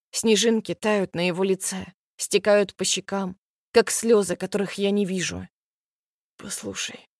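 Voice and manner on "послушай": much softer, near-whispered plea; quiet, almost a whisper. Acted. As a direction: barely voice it, pleading. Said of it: "говорит он тихо, почти шёпотом". (тихо, почти шёпотом)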